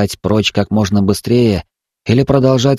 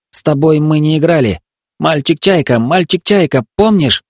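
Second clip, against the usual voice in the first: higher, rising desperate pleading; trapped boy pleading; 6 semitones higher than usual. A narrator's reading. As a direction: reach for his memory, urgently.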